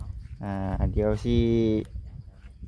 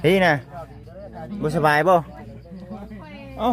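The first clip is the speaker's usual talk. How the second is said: raised voice calling a name; 5 semitones higher than usual. Real, not acted. Calling out to his friend Sing to check on him, raised voice. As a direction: call across the yard to him.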